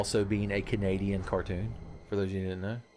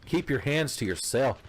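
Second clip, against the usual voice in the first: high indignant protest; huffy scandalized cry; mock indignant; 5 semitones higher, slower than usual.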